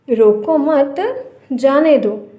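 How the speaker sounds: "रोको मत" joined, a clear break, then "जाने दो"; group it as "रोको मत", pause, "जाने दो"; pause after मत. Shown as a demonstration. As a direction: hold the comma after "मत". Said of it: "लेकिन कॉमा का फ़र्क है".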